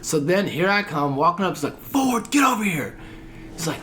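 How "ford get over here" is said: calling out. Retold or imitated. Officer calling recruit over.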